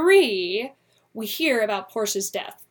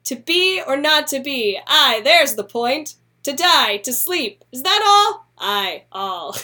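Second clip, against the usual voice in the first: hammed-up tragic Hamlet reading, higher; mock grand recital; 4 semitones higher, 5 dB louder, slower than usual. Shown as a demonstration. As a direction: declaim it like a bad actor, rising to a squeak on all. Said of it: "Instead of saying ... it said".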